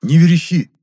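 short, loud, high shout; curt shout. A narrator's reading. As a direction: cut him off with a yell. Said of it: "отрывисто крикнул я". (отрывистый громкий окрик)

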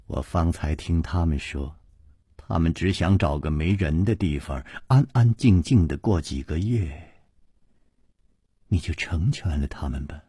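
soft, low, tender pleading; gentle, hushed request. A narrator's reading. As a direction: plead softly on their behalf. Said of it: "苏蓉蓉柔声说".

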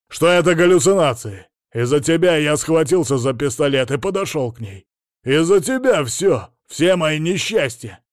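angry blaming. A narrator's reading. Patient shouting blame at his therapist, loud and furious. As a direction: pin all his misfortunes on her.

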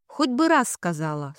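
plain reading voice

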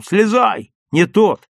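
let-down shout to a friend above; disappointed shout. A narrator's reading. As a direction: call up in disappointment. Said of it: "разочарованно крикнул".

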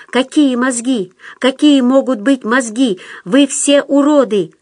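high, hurried parroting; meek, quick high-pitched repeat; frightened gabble. A narrator's reading. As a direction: rattle it back in a high voice. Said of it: "затараторил Дутов".

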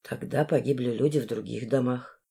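a hint of a grim young man. A narrator's reading. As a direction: say it low and soft. Male voice, lower and softer. (тихо и мрачно)

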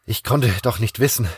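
out-of-breath protest; panting. Acted. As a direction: protest while catching your breath. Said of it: "keuchte ich".

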